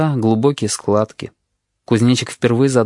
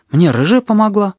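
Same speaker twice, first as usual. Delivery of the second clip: put-on higher, plain-spoken boy's voice; innocent child; 9 semitones higher, 4 dB louder than usual. A narrator's reading. Boy telling the nurse, innocent child's voice. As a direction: say it without any shame.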